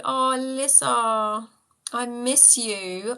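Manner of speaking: long, drawn-out affectionate "oh"; fond and missing. Real, not acted. Telling Alyssa she is missed, fondly. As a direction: linger slowly on each word, tenderly.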